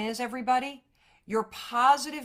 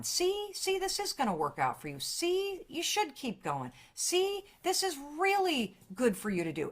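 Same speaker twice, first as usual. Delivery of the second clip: cheering inner friend; 7 semitones higher, 3 dB quieter than usual. Retold or imitated. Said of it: "that friend that's really cheering you on".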